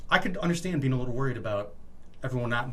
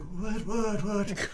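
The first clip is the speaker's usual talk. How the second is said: surprised boss; 8 semitones higher, much slower than usual. Retold or imitated. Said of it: "And he's like".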